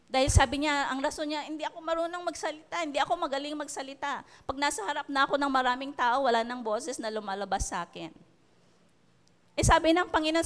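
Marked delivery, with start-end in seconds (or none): 1.5-8.1 quick, soft, hurried pleading as Moses; mock meek excuse. Moses nervously telling God he cannot speak. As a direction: rush the excuses out small and hushed.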